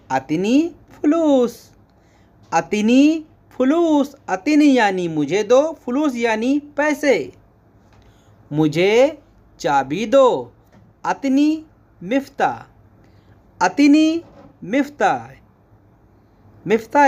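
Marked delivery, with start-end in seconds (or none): 0.1-4.1 अतनी फुलूस said higher, stress on फुलूस, falling; Arabic model phrase. Shown as a demonstration. Teacher modelling Arabic for money. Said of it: "इसको बोलेंगे". 11.0-15.1 अतनी मिफ्ता pitched high, stress on अतनी; Arabic model phrase. Shown as a demonstration. Teacher modelling Arabic for key. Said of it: "teacher models Arabic phrase".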